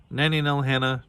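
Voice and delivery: lightly voiced dragon growling a name; growled. A narrator's reading. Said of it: "Dragonia growled".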